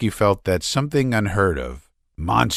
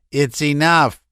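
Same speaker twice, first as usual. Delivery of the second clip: breathless Laevsky; 7 semitones higher, 3 dB louder than usual. A narrator's reading. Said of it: "breathing hard".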